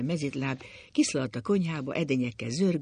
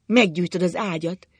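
raised, louder lament; wailing alarm; 4 semitones higher, 6 dB louder than usual. A narrator's reading. Wife sees the cigar on the bed, wailing. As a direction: cry out in dismay. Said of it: "jaj, veszékelt anya".

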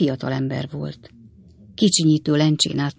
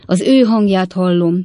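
louder overwrought cry from the aunt; exclaiming; 3 semitones higher, 6 dB louder than usual. A narrator's reading. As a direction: cry out as if overcome, moderately. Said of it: "kiáltott fel a hajadon nagynéni". (felkiáltva, izgatottan)

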